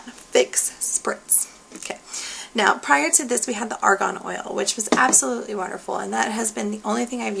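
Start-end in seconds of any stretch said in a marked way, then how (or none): 0.0-1.5 "Fix Spritz" with each word kept distinct; careful enunciation. Shown as a demonstration. Vlogger practising not to slur the product name, carefully enunciated. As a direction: say "Fix", then "Spritz", without slurring. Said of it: "not to slur that".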